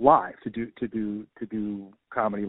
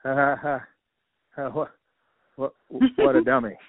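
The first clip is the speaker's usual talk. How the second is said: mock scoffing laughter. Comedian pretending to laugh at the clueless guy, mock scoffing. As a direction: fake a laugh, stumbling into the insult. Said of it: "I was like".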